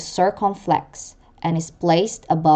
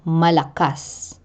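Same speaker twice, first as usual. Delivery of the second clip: malakas with stress on the final -kas; stress on last syllable. Shown as a demonstration. Teacher repeating an end-stress example, final syllable stressed in malakas. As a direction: land the weight on the end of malakas. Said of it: "end stress laid on the last syllable".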